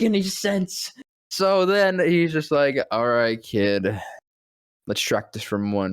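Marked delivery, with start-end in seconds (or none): 2.9-5.9 low murmur like Batman. Retold or imitated. Batman introducing Mark Hamill, low deadpan voice.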